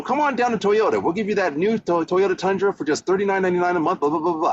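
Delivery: high, upbeat car-dealer pitch; car ad announcer. Shown as a demonstration. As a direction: sell it like a Toyota spot. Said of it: "when you hear a commercial".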